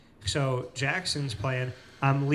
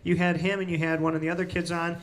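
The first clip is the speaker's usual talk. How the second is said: higher-pitched imitation of an excited mother; excited recognition; 5 semitones higher, faster than usual. Mother remembering the interview with her son, excited. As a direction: retell her tumbling memories with a lifted voice.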